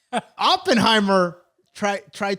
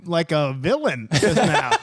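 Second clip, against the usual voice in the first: laughing; 3 semitones higher than usual. Real, not acted. Laughing at friend's voice.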